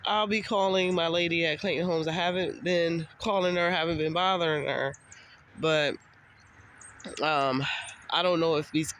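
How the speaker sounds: stuffy, blocked-nose voice; congested. Real, not acted. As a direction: talk through a congested nose. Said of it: "I am terribly congested".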